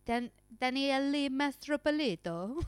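Daniele Mastropolito rolled slowly in a put-on Italian accent; slow hammed-up Italian accent on the name; a light Italian accent, playful; mock Italian accent. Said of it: "How many accents are you gonna".

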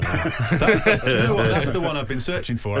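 talking through laughter; laughing. Real, not acted. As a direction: laugh while getting the words out. Laughs at the joke.

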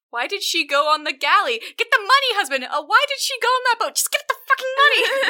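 high, loud frantic pleading, breaking into laughter; hysterical wife. Retold or imitated. Wife screeching at her husband to get the money, high and frantic. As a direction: shriek at the husband to pay up. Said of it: "He's like".

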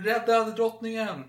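high, slow, urgent mock shout; guard's yell. Guard fighting intruders calls for help, high mock shout. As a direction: cry out to save the queen. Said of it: "Och han skriker".

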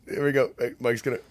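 choking on a drink; coughing, something went down wrong; swallowed wrong way. Real, not acted. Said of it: "it went down the wrong pipe".

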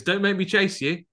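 high, loud mock threat; mock shout. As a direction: bark it like a cop. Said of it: "He goes".

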